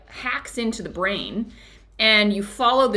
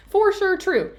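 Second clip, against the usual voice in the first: laughing, much higher and slow; laughing repeat; 11 semitones higher, 3 dB louder, slower than usual. Real, not acted. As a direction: echo it, chuckling in agreement. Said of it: "repeat with laugh".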